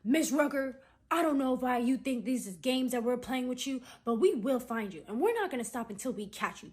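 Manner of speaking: loud, emphatic imitation of an agent; mock deep-voiced agent. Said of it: "like, a deep voice".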